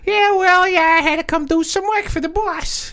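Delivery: lightly voiced Brooklyn mobster; easygoing Brooklyn wise guy talk; Brooklyn accent. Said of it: "my Brooklyn accent".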